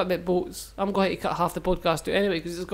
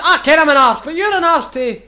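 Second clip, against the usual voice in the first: put-on Welsh accent; 7 semitones higher, 8 dB louder than usual. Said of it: "your Welsh accent wasn't very good".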